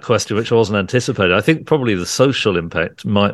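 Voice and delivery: hoarse voice, a touch rough; raspy voice. Real, not acted. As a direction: talk on through a croaky throat. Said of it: "forgive my voice".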